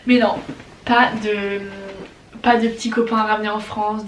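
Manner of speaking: loud, firm denial; emphatic no. Real, not acted. To her family about bringing home a boyfriend, loud firm denial. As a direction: shut the idea down loudly. Denying she has an American boyfriend.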